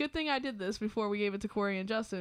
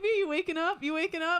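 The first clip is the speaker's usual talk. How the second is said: tag rousing someone; 6 semitones higher, 3 dB louder than usual. Retold or imitated. Acted retelling of being roused.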